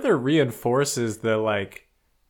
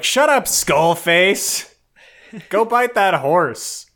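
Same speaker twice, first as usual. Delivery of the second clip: loud, higher, slow mock-bully command; slow bullying order; 8 semitones higher, 7 dB louder, much slower than usual. Horde rat orders Skullface to bite the horse, slow loud mock command. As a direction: lean on every word like a thug.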